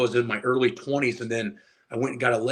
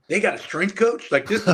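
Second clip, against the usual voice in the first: higher, laughing disbelief; young lifter hearing about the Colts coach, amazed and laughing; 7 semitones higher, 4 dB louder than usual. Retold or imitated. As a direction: sound floored that the job exists. Retold disbelief at strength coach.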